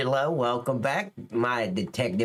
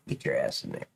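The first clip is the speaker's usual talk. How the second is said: gruff cop order; 5 dB quieter, faster than usual. Retold or imitated. Retelling ordering suspect in.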